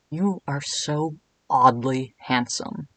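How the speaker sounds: slow, lightly seductive; flirty Cat King. Acted. Cat King complimenting Edwin, slow and flirty. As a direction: savour each word, a hint of a purr. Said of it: "my best Lucas Gage voice".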